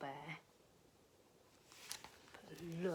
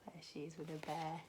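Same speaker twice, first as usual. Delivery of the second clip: fast unvoiced aside; quick secret aside; whisper; 4 dB quieter, much faster than usual. Real, not acted. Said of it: "unvoiced aside to children".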